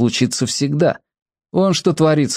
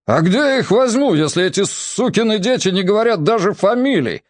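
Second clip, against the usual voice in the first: plaintive note; 9 semitones higher than usual. A narrator's reading. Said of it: "проскользнула жалобная нотка".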